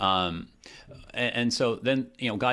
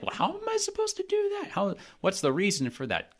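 incredulous question; 11 semitones higher than usual. Retold or imitated. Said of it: "the question is sort of like".

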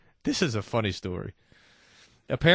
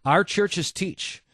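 slow reading; 6 semitones higher, 4 dB louder, much slower than usual. Real, not acted.

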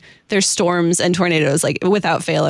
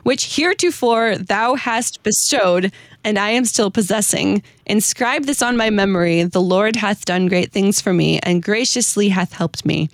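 hymn reading. Acted. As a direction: read it out like a devout poem. Reads hymn stanza aloud.

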